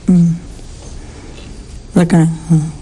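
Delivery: a hushed, slow whisper for the downcast faces. Acted. Preacher hushing the congregation for the sad disciples, slow whisper. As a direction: whisper it slowly, dropping the voice to nothing.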